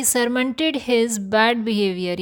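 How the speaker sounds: very slow, careful teacher reading; slow example sentence. Shown as a demonstration. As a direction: read it out slowly for learners.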